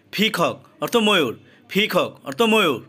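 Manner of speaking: ফিকক with a breathy ph at the start; aspirated p. Shown as a demonstration. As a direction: peacock said 'phikok', air on the p. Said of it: "পি এর উচ্চারণ ফ". (ফিকক শব্দের শুরুতে ফ-এর মতো উচ্চারণ)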